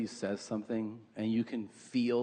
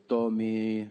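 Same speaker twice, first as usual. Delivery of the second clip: lightly imitated Peruvian mother calling his name; Peruvian accent; 3 semitones lower than usual. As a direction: say Tommy the way a Peruvian mom does. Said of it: "Why does she talk so fucking weird".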